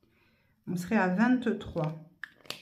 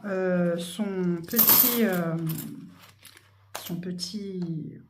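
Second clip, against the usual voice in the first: slow hesitant; 3 semitones lower, 3 dB quieter, much slower than usual. Real, not acted.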